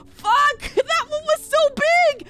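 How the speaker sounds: high wailing, laughing outburst; genuinely excited. Real, not acted. Player missing a big fish, real overexcited wail. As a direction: squeal and wail over the one that got away. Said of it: "I'm getting genuinely excited".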